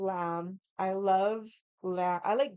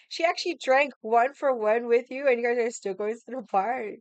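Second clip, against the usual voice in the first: loud, higher, incredulous retelling; mock disbelief; 5 semitones higher, 6 dB louder than usual. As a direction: imitate an astonished server questioning the friend. Amazed server questions the friend.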